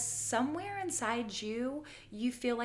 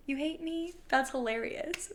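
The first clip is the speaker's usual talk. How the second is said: higher, gloating villain taunt; mock a hater with villain glee; mustache twirling villain; 4 semitones higher than usual. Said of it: "in your villa era in a way where you're like".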